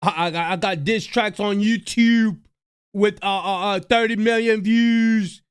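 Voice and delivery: mocking brag. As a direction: imitate his bragging about numbers. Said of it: "There they go with the numbers".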